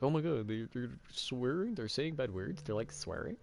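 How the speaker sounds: high, prissy mock gasp; mock shocked viewer. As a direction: act scandalized at the swearing. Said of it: "freaking out like".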